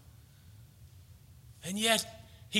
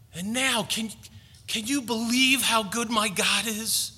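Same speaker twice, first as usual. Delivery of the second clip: raised, earnest amazement as the apostle; acted disbelief; 3 semitones higher than usual. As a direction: preach his wonder at being chosen, pausing between phrases. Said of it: "He can't believe it".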